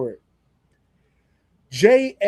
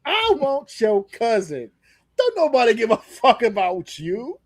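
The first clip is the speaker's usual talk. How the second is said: imitating Oba; 3 semitones higher than usual. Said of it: "He looked Jay right in the face and just went".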